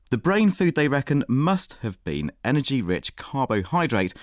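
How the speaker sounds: lively, emphatic science magazine intro; radio presenter read. Acted. Presenter introducing today's science stories to radio listeners, scripted broadcast read. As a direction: present the headlines with punchy, lifted openings.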